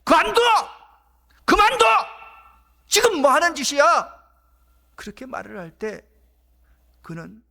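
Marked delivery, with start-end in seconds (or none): 0.0-4.2 loud angry shout, much higher; rebuking crowd. Acted. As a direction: bark at him to stop. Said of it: "꾸짖으면서".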